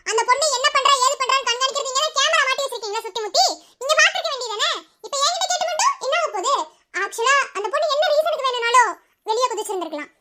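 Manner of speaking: high, laughing through the retort; mock him with a laugh in the voice; scornful laugh. Teacher mocks principal's logic, laughing.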